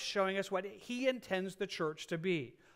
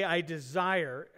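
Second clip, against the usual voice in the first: encouraging tone; much slower than usual. Shown as a demonstration. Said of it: "it really has an encouraging tone".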